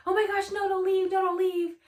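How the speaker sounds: imitating a friend's frantic please-stay; desperate begging. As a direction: plead like she can't let you go.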